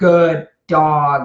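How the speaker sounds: grumbly, disapproving, punishing tone. Showing how a dog hears tone rather than words, in a grumbly punishing tone. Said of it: "grumbly is going to kind of be like a punishing".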